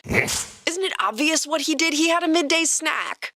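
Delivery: high, smug creature voice; dragon voice. Acted. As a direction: play it smug and innocent. Toothless voiced by narrator.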